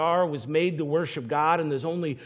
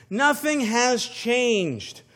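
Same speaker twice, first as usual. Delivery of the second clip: slow emphatic repeat; 5 semitones higher, much slower than usual. Shown as a demonstration.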